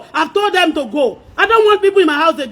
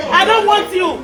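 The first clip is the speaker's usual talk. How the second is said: heated, raised-voice argument; fed-up, forceful outburst; angry dismissal. Real, not acted. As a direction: send them off in real anger. Real quarrel over money and leaving.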